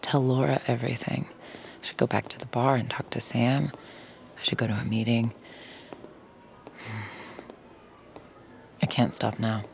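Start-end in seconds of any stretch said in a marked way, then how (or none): 1.8-9.6 anxious whispered self-talk; hushed with a final sigh. Acted. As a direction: whisper it to yourself, torn. Torn, talking herself through it.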